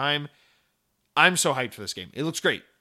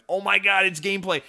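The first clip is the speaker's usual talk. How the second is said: amazed reaction; 4 semitones higher, 4 dB louder than usual. Retold or imitated. Quoting his amazed trailer reaction.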